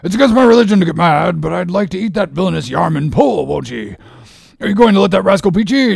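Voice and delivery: high, loud boat-crew harangue; Stubb crying out. A narrator's reading. Second mate egging on his crew to race, rousing cry. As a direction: goad the rowers in excited, rising bursts. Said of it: "cried Stubb to his crew".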